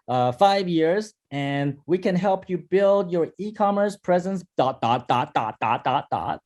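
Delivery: routine company intro read off a list; generic sales pitch. Shown as a demonstration. Teacher demos the bad cold-call opening, routine pitch. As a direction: recite it like every other cold caller. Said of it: "First one".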